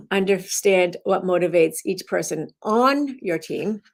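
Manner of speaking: "on" stressed and rising, an odd spot for weight; "on" pushed up. Shown as a demonstration. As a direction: tip the emphasis onto "on". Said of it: "you emphasize it to change the meaning".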